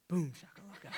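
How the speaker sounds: hushed little-kid imitation; toddler leaning in. Dad imitating his two-year-old after a scolding, hushed and cheeky. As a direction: softly mimic a defiant toddler, leaning in close. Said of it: "he kinda leans in and he goes".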